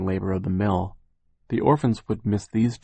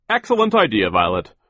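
Mister Poe; 7 dB louder than usual. A narrator's reading. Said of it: "Mister Poe said".

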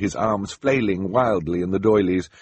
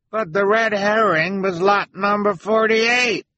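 high, loud shout from a crowd; calling out; 13 semitones higher, 6 dB louder than usual. Acted. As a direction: call out over a room, pitched high.

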